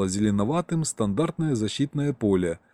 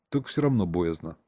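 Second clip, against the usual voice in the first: ordinary delivery, nothing marked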